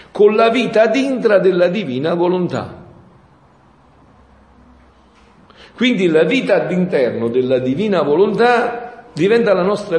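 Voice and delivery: fervent preaching. Acted. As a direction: preach it out to the crowd. Preaching rises to full force.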